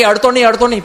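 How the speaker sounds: high, urgent cry of don't touch; alarmed warning. Retold or imitated. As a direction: warn them off the live switch. Someone warns not to touch switch.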